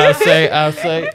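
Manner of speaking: Foghorn Leghorn voice. Retold or imitated. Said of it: "foghorn leghorn".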